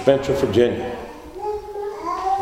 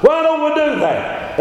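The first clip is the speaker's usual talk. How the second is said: mock questioner; 14 semitones higher than usual. Mimics a questioning church member.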